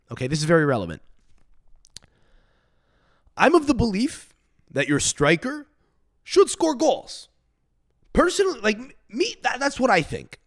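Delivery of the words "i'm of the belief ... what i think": mock old-school pundit. Lecturing viewers like an old-school pundit, mock pompous. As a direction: play an old-school know-it-all.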